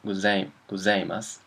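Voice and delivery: gozaimasu tried haltingly as go-ZAI-mas; naive reader's guess. Retold or imitated. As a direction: misread gozaimasu tentatively, as if seeing it written. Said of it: "how do you pronounce this".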